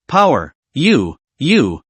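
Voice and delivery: slow, halting, stunned stammer; words stumble out in disbelief. Acted. Friend stares at a car-lifting strongman, stammering slowly. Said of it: "his speech was a little sloppy".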